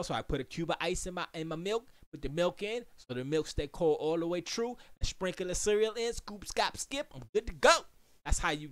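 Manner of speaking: usual speaking voice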